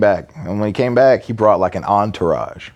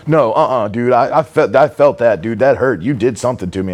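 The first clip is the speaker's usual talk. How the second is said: louder, higher imitated protest; alarmed protest; 4 semitones higher, 3 dB louder than usual. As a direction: insist you were hurt, mildly panicky. Client insisting he was hurt, retold.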